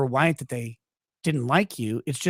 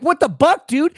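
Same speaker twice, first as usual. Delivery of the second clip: put-on loud, high, indignant kid; mock outraged protest; 10 semitones higher, 8 dB louder than usual. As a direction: shout it like a betrayed third grader.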